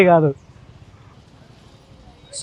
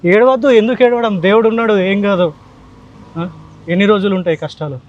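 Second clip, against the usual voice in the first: raised, higher voice easing down; urgent consoling; 4 semitones higher than usual. Real, not acted. Visitor consoling a crying family after giving help, urgently reassuring. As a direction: firmly hush someone's tears and reassure them.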